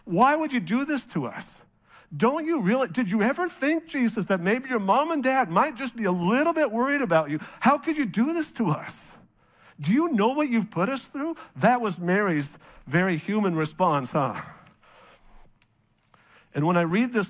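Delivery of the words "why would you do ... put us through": higher-pitched, exasperated mother scolding; Mary scolding Jesus after searching everywhere, exasperated. Retold or imitated. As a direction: play the worried, frustrated mom. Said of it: "Mary's response".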